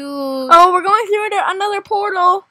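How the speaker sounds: usual speaking voice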